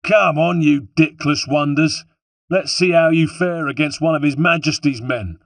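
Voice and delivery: high, loud battle taunt; goading soldier's yell; defiant shouting. A narrator's reading. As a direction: roar a challenge at your enemies. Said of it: "Holden shouting".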